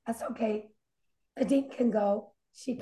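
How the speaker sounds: quiet, worn-out voice; losing voice. Real, not acted. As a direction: voice nearly gone. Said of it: "you sound like you're losing your voice".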